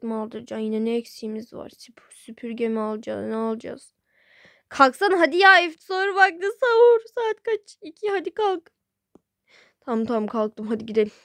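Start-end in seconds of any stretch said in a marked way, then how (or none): 4.7-8.7 higher, louder nagging to get up; insistent wake-up. Acted. Wife nagging sleepy husband to get up for sahur, loud and high. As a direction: push him out of bed, pitch climbing on sahur.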